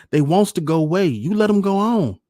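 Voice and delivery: put-on high, loud, impatient boy's yell; screaming child. A narrator's reading. Young son demands the weeds let his ships go, screaming. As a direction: shriek like a small boy in a tantrum. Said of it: "John screamed and stamped".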